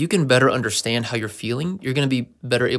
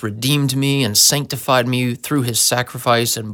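mock-earnest sermon voice, louder on the big words; preachy Christianese testimony; 5 dB louder than usual. Christian sharing testimony with outsiders, mock preachy. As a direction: ham up the churchy jargon. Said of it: "they'll be talking about".

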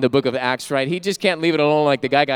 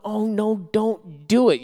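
alarmed plea; 3 semitones higher, slower than usual. Retold or imitated. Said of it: "I'm going".

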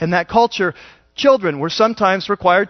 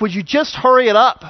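mock panicky disciple; 3 semitones higher than usual. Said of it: "the guy is going freaking out".

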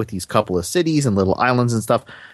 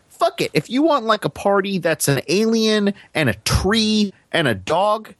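high, carefree shrug of a voice; careless developers; 9 semitones higher than usual. Retold or imitated. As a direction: toss it off like nothing matters. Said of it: "the game developers are gonna be like".

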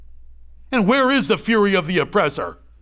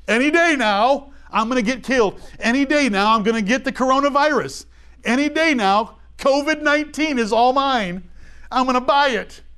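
higher, mock-panicked voice of someone sure of doom; mock worrier; 4 semitones higher than usual. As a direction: lightly mimic a fretful doomsayer. Mocking the fearful worrier.

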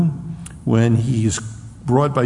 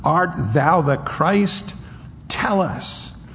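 higher, mocking question; jeering council; 5 semitones higher than usual. The council mocking the beaten Jesus. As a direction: needle him with a raised taunting voice. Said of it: "they continued saying".

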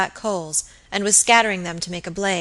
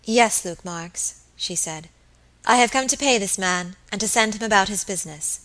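mechanical. Acted. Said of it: "in a strange, semi-mechanical manner".

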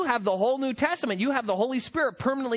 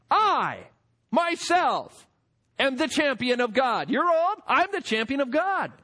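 sarcastic angel; 4 semitones higher than usual. Retold or imitated. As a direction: rub it in with sarcasm. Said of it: "sarcasm here in the text".

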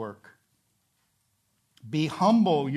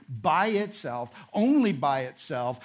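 "by itself" set apart and restated with emphasis; stress on "by itself". Shown as a demonstration. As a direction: underline "by itself", then reinforce it with "only". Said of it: "It's meant to emphasize something".

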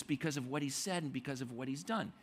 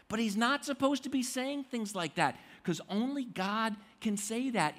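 higher and louder, outraged; indignant religious leaders; 5 semitones higher, 4 dB louder than usual. Retold or imitated. Leaders of the law outraged at Jesus forgiving sins. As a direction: protest like scandalized teachers of the law. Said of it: "And they're saying".

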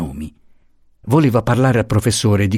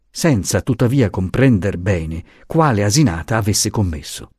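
usual speaking voice

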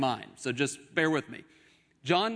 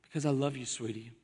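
cheesy tenderness. Acted. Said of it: "or something cheesy like that".

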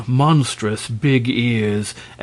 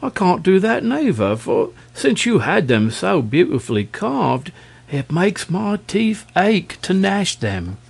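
dragon voice; 7 semitones higher than usual. Acted. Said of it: "answered the dragon".

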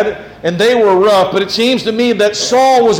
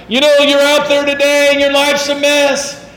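higher, salesy prosperity preacher voice; mock preacher pitch; 4 semitones higher than usual. Pastor mocking false preachers to his congregation, salesy parody. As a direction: sell it like a cheesy TV preacher. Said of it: "People are like".

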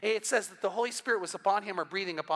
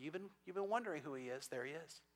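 very soft, lower voice; gentle whisper imitated; 4 semitones lower, 13 dB quieter than usual. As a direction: drop to a hushed, confiding murmur. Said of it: "Holy Spirit's gonna whisper to somebody".

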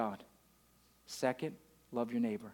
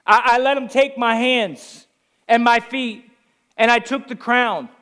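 impassioned Jesus voice; 7 semitones higher, 10 dB louder than usual. Acted. Voicing Jesus on the cross.

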